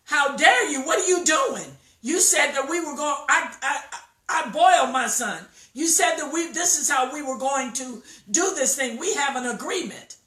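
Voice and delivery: an outraged mother telling off the other. Acted. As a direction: confront her over the broken deal. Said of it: "this lady is outraged".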